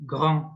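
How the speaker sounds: "grand" set apart, throaty r, silent d; French pronunciation. Shown as a demonstration. Teacher repeating a new word, "grand" with throaty r. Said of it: "is pronounced grand".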